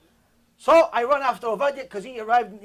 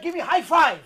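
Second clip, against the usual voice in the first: put-on toddler voice; 7 semitones higher, 5 dB louder than usual. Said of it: "He's like".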